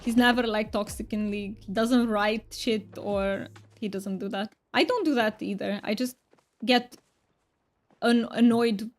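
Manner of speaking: a thick, hammed-up Romanian accent, played for fun; mock Romanian accent. Streamer chats with viewers in a mock thick Romanian accent. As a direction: streamer puts on a joke Romanian accent for chat. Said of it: "But I will be talking in this".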